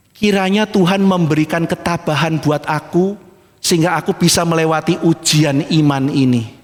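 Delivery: imitated pious wish, subdued and measured; artist's pious statement. Preacher quoting the adulterous artist's statement, subdued and pious. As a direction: quote it like a solemn little prayer. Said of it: "Dia ngomong kalimat begini".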